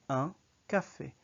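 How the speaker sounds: Un café with a short nasal un; French pronunciation. Shown as a demonstration. Teacher modeling French article for learners, careful pronunciation. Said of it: "So you say".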